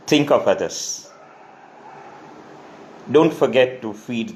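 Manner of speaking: measured poetry reading with long pauses; poem recitation. Acted. Poet reading another poet's poem to an audience, measured recitation. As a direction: recite each line deliberately, letting the refrain fall.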